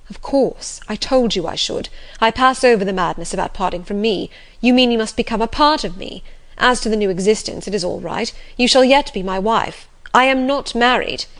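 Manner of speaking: lightly voiced master, urgent and commanding; insistent, overriding master. Master insists Jane shall yet be his wife, urgent. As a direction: brush objections aside and insist.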